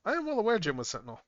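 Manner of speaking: high, loud exasperated protest; mock exasperation. Real, not acted.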